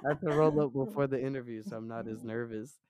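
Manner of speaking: deep, relaxed stoner voice; low, easy voice like a pothead; low magnetic voice. Real, not acted. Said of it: "your voice is so deep".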